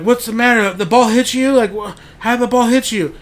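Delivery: high, loud, concerned teacher voice; worried teacher. Retold or imitated. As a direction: rush in asking what happened, voice up high. Teacher questioning crying girl.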